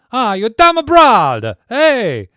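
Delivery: put-on very loud, high Italian-accented holler; yelling Italian guy. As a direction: holler like a cartoon Italian in a street row. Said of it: "yelling at his".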